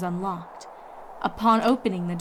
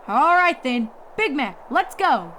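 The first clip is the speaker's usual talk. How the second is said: a touch louder big sister rounding up the family; urgent farm pony, a bit higher; lightly voiced Applejack calling out; 6 semitones higher, 5 dB louder than usual. A narrator's reading. Applejack gives in.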